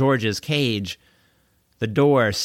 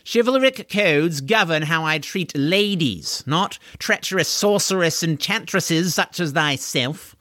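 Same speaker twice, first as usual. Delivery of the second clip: pompous knight voice; 5 semitones higher than usual. Acted. Corwin scorns Deirdre.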